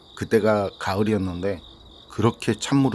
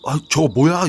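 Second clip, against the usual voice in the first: higher, louder startled cry; startled exclamation; 7 semitones higher, 6 dB louder than usual. Acted. Junior spots the figure running to the water, startled shout. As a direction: blurt it out in alarm, pitch jumping up. 후배가 놀라서 외치며 달려감.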